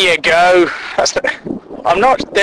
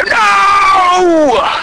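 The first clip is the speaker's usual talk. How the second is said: loud, high shouted no; horrified shout; 12 semitones higher, 3 dB louder than usual. Retold or imitated. Everyone at dinner refusing cheese on a roast, horrified shout. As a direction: shut the idea down hard. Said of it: "everyone will go".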